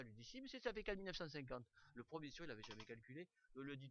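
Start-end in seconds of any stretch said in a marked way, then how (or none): 0.3-1.6 higher, louder mock pupil protest; retold schoolboy insistence, pitched up; insistent retort. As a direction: insist like a kid contradicting the teacher. Pupil insisting to doubting teacher.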